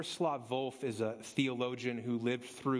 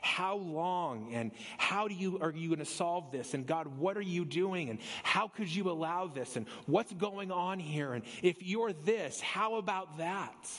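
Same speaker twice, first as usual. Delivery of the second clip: higher, pleading questions at God; frustrated prayer; 3 semitones higher than usual. Retold or imitated. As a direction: pray it like someone worn out and frustrated, lightly acted. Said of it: "laboring over in prayer".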